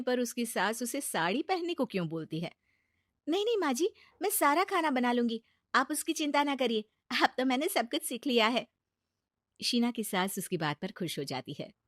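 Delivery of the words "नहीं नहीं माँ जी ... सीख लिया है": higher, quick eager offer; eager bride. Acted. Sheena eagerly tells her mother-in-law she will cook, higher eager voice.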